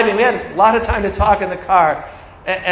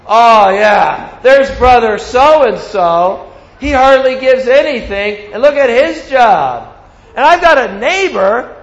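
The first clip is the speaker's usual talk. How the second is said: louder, higher, grumbling gossip rant; mock griping; 4 semitones higher, 4 dB louder than usual. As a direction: ham up a jealous member complaining. Mocking a jealous churchgoer's gossip.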